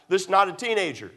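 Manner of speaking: preacher's emphatic restatement, leaning on "not"; emphatic repetition. Real, not acted. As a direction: drive home the word "not". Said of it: "let me emphasize".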